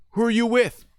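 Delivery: high, loud challenge through a door; shouting back. Retold or imitated. Paranoid man questions agent at the door, shouting back. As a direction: yell the question from inside.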